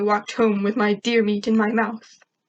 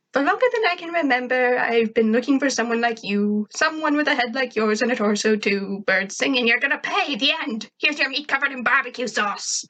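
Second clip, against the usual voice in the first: put-on higher girl voice reciting a poem; pitched-up poem recital; Tack; 3 semitones higher than usual. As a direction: recite in a put-on schoolgirl voice, rising toward the end.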